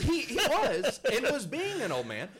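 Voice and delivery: high, loud, slow laughing protest. Real, not acted. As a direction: laugh through it.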